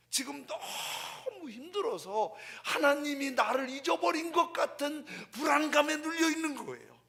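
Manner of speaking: full-force pulpit fervor; impassioned preaching. Acted. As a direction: cry it out with pleading intensity. Preacher describing David's anguish.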